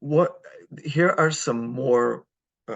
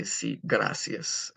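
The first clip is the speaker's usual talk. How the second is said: slow model phrase; 2 semitones lower, 3 dB quieter, much slower than usual. Shown as a demonstration. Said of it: "teacher models phrase slowly".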